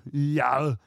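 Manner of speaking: drawn-out one-word impression; Arnold. Shown as a demonstration. Co-host asked for his one-word party-piece impression, drawn out. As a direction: throw out a single stretched, mock-Arnold grunt of a word. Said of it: "don't you do an Arnold".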